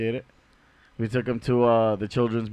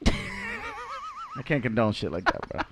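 high, slow, laughing rapper voice; squeaky laughing rapper impression; imitating a rapper; 10 dB quieter, much slower than usual. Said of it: "That's him saying it".

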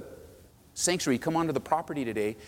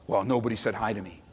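whiny complaint; 5 semitones lower than usual. Retold or imitated. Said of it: "thinking about".

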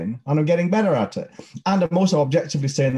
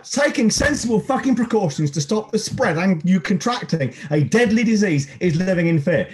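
heated and higher, hammering each point; ranting anger; 6 semitones higher than usual. Real, not acted. Host ranting at anti-mask poster, heated and higher. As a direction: vent your fury at the poster people. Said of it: "the one minute hate".

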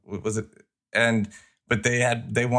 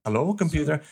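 quoting Scotty; 6 semitones higher than usual. Retold or imitated. Repeats the famous line.

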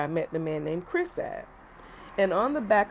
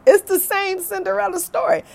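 higher and louder, laughing through it; 8 dB louder than usual. Real, not acted. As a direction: crack up as you repeat it. Repeated punchline with laugh.

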